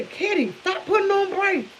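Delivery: imitating grandfather. Grandfather scolding grandma in car.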